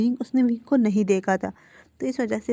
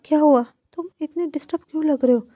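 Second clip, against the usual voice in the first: higher, louder and fast with worry; anxious aunt asks her upset nephew why he looks so disturbed; alarmed aunt; 6 semitones higher, 6 dB louder, faster than usual. A narrator's reading. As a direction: rush the question out, alarmed.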